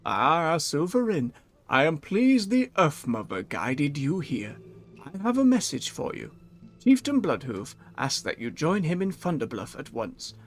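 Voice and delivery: calm, measured wise elder voice; serene spirit walker. Acted. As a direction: read it like a serene mystic. Reads NPC Spirit Walker lines.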